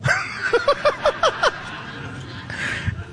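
high unvoiced laughter; breathy laugh. Real, not acted. Preacher laughing at his own story, breathy laugh. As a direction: laugh at the punchline.

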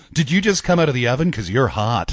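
straight-faced chat-up, punchline dropped low; pickup-line voice. Acted. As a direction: set it up plainly, drop low on the payoff. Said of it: "why do I do it in that voice".

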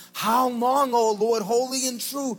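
half-sung cry for justice; a touch of mournful pleading; martyrs crying out. Retold or imitated. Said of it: "And they say".

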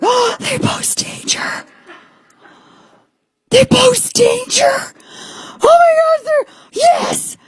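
very high, breathless squeal building to a cry; giddy alien excitement. Retold or imitated. Host acting out thrilled reaction to alien danger, squealing high. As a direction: squeal with delight, voice cracking upward. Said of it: "I'm like".

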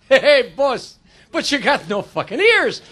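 Italian guy, slow and drawn out; slow, blurted remark in an Italian accent. Acted. Italian job applicant answers the earless boss, blunt Italian accent. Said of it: "The Italian guy says".

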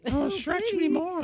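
put-on voice. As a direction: camp it up, stretching every word. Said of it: "Did you affect a voice?".

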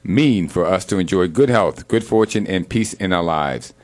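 earnest spoken prayer, steady and devout. Acted. Host praying aloud for family and friends, devout prayer voice. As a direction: pray over your family with conviction.

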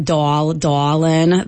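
"doll, dollin" with an AW vowel; Yat aw vowel. Shown as a demonstration. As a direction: say "doll" and "dollin" as "dawl, dawlin". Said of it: "vowel that you will hear in".

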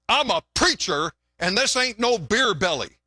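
mildly mock-indignant; indignant preacher. Preacher answering the woman about his belly, mildly indignant. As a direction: lightly play an affronted preacher. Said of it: "the preacher got all indignant".

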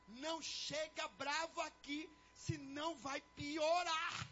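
slow, emphatic mock warning; daughter's warning. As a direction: spell out the warning slowly, building at the end. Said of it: "A mãe tá violenta".

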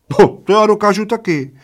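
high-pitched little man's squeal. A narrator's reading. Little old man takes up the dare, squealing. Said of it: "zaječel maličký".

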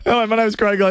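hammed-up radio host intro; bright announcer read of the name. Shown as a demonstration. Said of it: "wanted to talk like an A M radio announcing guy".

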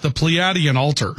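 "Pleiadian Altar" sounded out as a correction; careful pronunciation. Shown as a demonstration. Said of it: "I believe it's pronounced".

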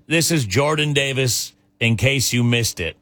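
slow, deliberate on-air read; radio host intro. Shown as a demonstration. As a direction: model a DJ's song intro. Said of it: "we're about to play some of a singer's music".

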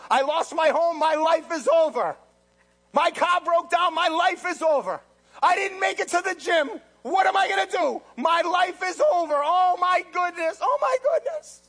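loud, high melodramatic whining; mock despair. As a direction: ham up the panic. Mocking an anxious Christian.

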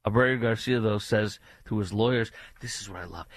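ordinary talk, nothing marked

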